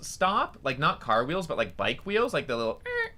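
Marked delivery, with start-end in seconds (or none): 2.9-3.1 imitated short brake squeak; squeaky brake. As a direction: mimic a squeaky bike brake. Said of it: "of, like, a squeaky brake".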